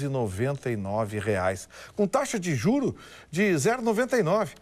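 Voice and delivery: upbeat car dealer ad read; booming prize announcer. Acted. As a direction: sell it like a radio pitchman. (locutor de anúncio animado)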